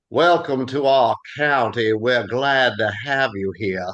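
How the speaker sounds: slow Southern welcome, drawn-out vowels; Southern accent. Shown as a demonstration. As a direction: drawl it like a hospitable Southerner. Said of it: "Jake, if I go".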